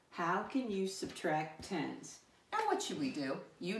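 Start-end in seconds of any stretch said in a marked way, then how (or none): 0.1-2.2 slow, measured group reading; slow read-along. Shown as a demonstration. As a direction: lead the class through it slowly. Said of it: "Read it with me this time".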